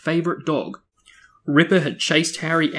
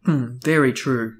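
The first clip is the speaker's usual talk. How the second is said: Aunt Petunia; 3 dB louder than usual. A narrator's reading. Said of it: "said Aunt Petunia".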